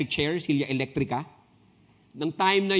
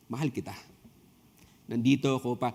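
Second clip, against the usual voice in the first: tender reassurance; 4 semitones lower, 3 dB quieter, faster than usual. Retold or imitated. Jesus tender to leper.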